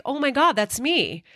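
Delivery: a high, gasping oh my God; stunned by seeing herself; shocked disbelief. Retold or imitated. Recognizing herself on old tape.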